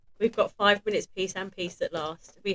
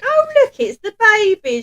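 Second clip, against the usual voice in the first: high, loud hammed-up cry; Burglar Bill voice; 10 dB louder than usual. Mum and her mum teasing Hannah, high and loud. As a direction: squeal out the family joke. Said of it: "And we're like".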